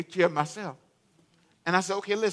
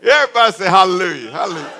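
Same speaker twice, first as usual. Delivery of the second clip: loud call-out; 10 dB louder, faster than usual. Real, not acted. Rallying congregation.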